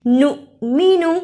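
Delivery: नु cut short at the hamza, then मीनू. Shown as a demonstration. Teacher showing students the hamza stop, नु clipped short. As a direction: stop नु abruptly, no long vowel. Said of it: "इसे नून पेश वाव नू नहीं पढ़ना".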